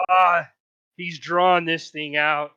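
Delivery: loud groaned complaint, dragged out; slow, exasperated moan; moaning spectator. Acted. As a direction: grumble from the back of the crowd. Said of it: "a few moans in the back".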